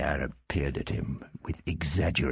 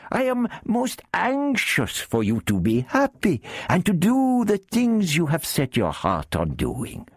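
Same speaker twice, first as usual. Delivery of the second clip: much higher, wheedling Arab character; Arab thief voice; 14 semitones higher than usual. Acted. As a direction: lift the voice high for the sly Arab.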